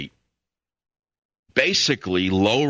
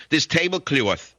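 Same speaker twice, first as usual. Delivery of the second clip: higher, slow New York accent; Jackie Kennedy; 6 semitones higher, slower than usual. Shown as a demonstration. Host showing listeners they share an accent, New York accent. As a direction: draw out the New York vowels in "tablecloth". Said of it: "She speaks with the same accent".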